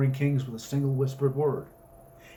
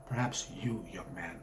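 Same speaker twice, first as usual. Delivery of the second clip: soft plea; 6 semitones lower, 11 dB quieter than usual. Acted. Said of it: "eyes softened to match the earnestness of his plea".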